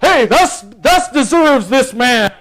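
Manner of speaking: a hint of a reluctant, half-hearted proclaimer, drawn out; lightly voiced, grudging Haman; grudging herald. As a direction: mumble the honor without meaning it. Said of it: "like this".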